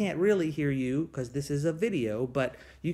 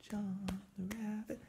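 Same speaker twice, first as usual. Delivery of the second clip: soft call; 3 semitones higher, 14 dB quieter than usual. Acted. Call-and-response song, soft lead.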